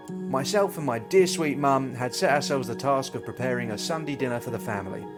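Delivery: lively travel presenter narration; upbeat travel show host. Acted. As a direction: tell it like a cheerful TV host. Presenter narration over footage.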